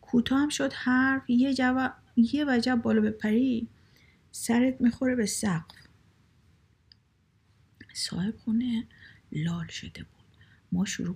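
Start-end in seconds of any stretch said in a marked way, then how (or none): 0.0-5.8 higher-pitched, emphatic butting-in; high, animated one-upping; eager interruption. A narrator's reading. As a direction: jump in with a high, insistent objection. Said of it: "فرید تو حرفم دوید".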